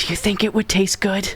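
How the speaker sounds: hushed, soft, quiet whisper, barely voiced. Voicing a character who leans in to another player: quiet whisper. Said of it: "he quietly whispers to you".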